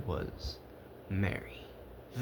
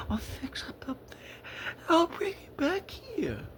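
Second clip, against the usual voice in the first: hushed secret whisper; whispered fib to a child. A narrator's reading. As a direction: breathe it like a sneaky secret. Fake Santa whispering lies to child.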